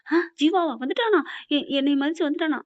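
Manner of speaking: imitating a mother's delighted high exclamation; overjoyed surprise. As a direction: lift it up, thrilled the son came. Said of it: "என்ன ஒரு இது சந்தோஷம்".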